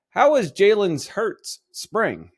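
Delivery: lightly done coach impression with a hint of Italian; a touch of an Italian-American coach's voice; Sirianni voice. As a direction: mildly imitate a head coach at a press conference. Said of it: "I hope you like my Sirianni voice".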